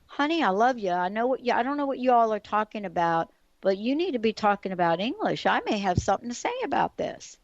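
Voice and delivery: stepmom's lightly imitated Southern accent; a hint of Southern accent in a retold quote. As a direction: retell it with a touch of Southern accent. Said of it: "in this Southern accent".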